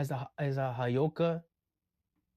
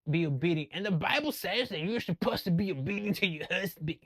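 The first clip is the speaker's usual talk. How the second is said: mock preachy man; 4 semitones higher than usual. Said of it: "Christian men particularly".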